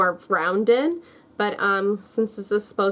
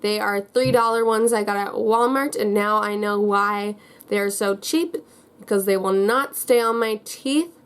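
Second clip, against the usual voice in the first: wearing vampire fangs. Real, not acted. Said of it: "which is why I'm talking very strangely".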